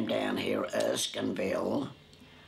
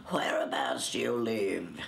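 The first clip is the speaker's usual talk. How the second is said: lofty tone. Retold or imitated. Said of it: "in a very lofty tone".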